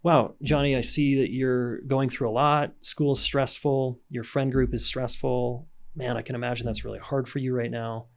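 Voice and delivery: slow, patient, caring parent voice; slow validating demo. Shown as a demonstration. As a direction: talk a stressed teen down gently and slowly. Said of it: "When Johnny's fifteen, it's like".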